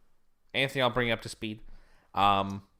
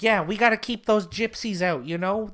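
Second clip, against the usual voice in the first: much higher mock hairdresser in a put-on Eastern European accent, settling down toward the end; 7 semitones higher than usual. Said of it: "Eastern European accent".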